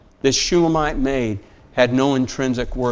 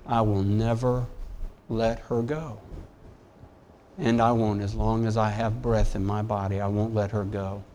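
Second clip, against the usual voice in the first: sincere vow; 2 semitones lower, 5 dB quieter than usual. Real, not acted. Vow about his wife.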